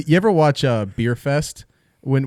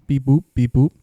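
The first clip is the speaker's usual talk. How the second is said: snorkel noise; 4 dB louder than usual. Pretend. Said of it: "looks like a, uh, snorkel".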